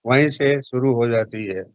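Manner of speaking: lightly imitated star delivering a famous line; Amitabh Bachchan. Shown as a demonstration. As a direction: stretch the opening words, then settle down. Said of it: "Bachchan साहब की तरह आप कोई dialogue बोले".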